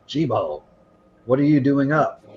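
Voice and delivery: put-on Augra catching the sick boy out of bed, startled; gasp of surprise. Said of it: "she looks at Jibo and she goes".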